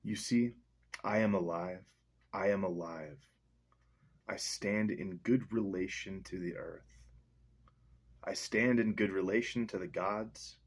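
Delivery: measured, earnest poetry reading; slow recital of a nature poem. Acted. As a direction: read it like a chant of being. Reads poem aloud.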